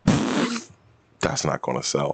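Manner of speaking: slow, drawn out. Real, not acted.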